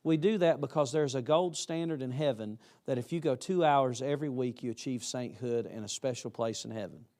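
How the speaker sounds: deadpan, as if solemnly promising a heavenly reward; mock sarcasm. Shown as a demonstration. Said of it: "let me say it sarcastically".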